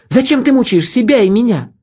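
high, anguished angry outburst; angry plea to stop the torment; angry cry. A narrator's reading. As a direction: cry it out in anger and despair. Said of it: "закричала она гневно".

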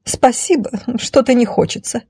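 high, mildly cutting lady; dry, high-pitched brush-off; cutting refusal. Acted. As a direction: refuse curtly in a lady's high voice. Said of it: "отрезала дама не хуже, чем тот нож".

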